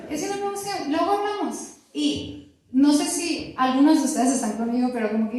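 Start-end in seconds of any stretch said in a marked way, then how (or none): 0.1-1.6 high, soft, prim imitation of a calm refusal; imitating calm husband. Wife imitating husband's soft brush-off: high and quiet. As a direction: mimic him as a soft, precious brush-off. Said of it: "con ese tono".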